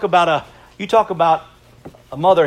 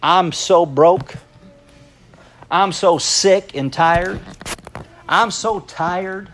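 mock complaint; much slower than usual. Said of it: "How many times have we said".

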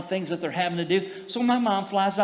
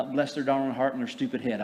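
laughing quote; 4 semitones lower, 4 dB quieter than usual. Retold or imitated. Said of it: "Brother Hagin always used to say".

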